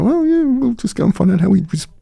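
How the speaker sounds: can-do Aussie attitude. Retold or imitated. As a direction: toss it off like nothing's impossible. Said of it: "that's just Australian thing".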